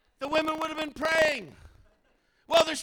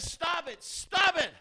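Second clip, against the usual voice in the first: firm command; 4 semitones higher, slower than usual. Acted. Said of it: "Jesus says".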